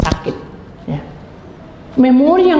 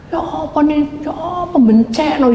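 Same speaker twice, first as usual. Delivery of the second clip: high, stretched-out mock complaint; acted lament; 6 semitones higher than usual. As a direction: drag out the helpless question. Acted complaint about misfortune. (ratapan mengeluh bernada tinggi)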